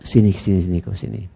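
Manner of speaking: soft, low call to come over; retold gentle summons; gentle beckoning. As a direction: beckon kindly and quietly. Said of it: "Nggak kasar".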